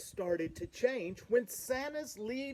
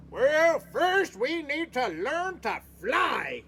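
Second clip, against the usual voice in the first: coach shout; 7 semitones higher, 7 dB louder than usual. Acted. Coach addresses the fawns.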